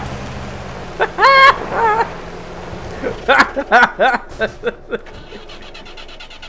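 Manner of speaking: breathy laughing fit. Real, not acted. Laughing after the mishap.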